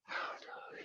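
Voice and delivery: fading to a whisper; barely voiced cue. Shown as a demonstration. Repeated cues, fading.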